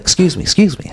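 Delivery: high polite calling after him; lightly voiced woman calling out from behind; a touch of a woman's calling voice; imitating the woman. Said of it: "she's like".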